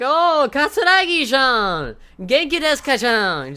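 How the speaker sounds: hammed-up gushing in a very high voice; Hikage. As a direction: mimic a character overflowing with emotion. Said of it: "she sounds so fucking weird".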